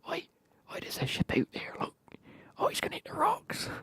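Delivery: high, loud alarmed shout of a lighthouse bloke; lighthouse keeper calling. Acted. Lighthouse bloke spotting a ship, alarmed high shout.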